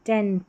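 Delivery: टेंट with a clear short e, like English tent; correct pronunciation. Shown as a demonstration. Teacher models टेंट for students, clear and careful. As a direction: say टेंट cleanly, rhyming with bent. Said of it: "उच्चारण आप टेंट करके निकालें इस तरीके से".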